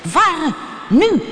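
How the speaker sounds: high, urgent call; loud, high cry of urgency; shouted command. A narrator's reading. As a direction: shout each word as an order to go. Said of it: "riep U K".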